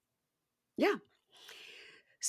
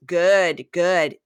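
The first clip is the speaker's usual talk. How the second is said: loud, short mock-angry approval; acted curt retort; 3 semitones lower, 8 dB louder than usual. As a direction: punch each word as the wounded boyfriend. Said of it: "And he goes".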